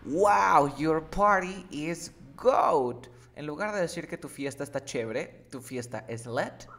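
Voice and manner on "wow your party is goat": excited compliment. Acted. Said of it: "Puedes decir".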